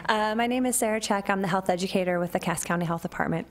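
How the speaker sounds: rough, hoarse voice getting over a cold; gravelly voice. Real, not acted. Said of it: "please excuse my gravelly voice".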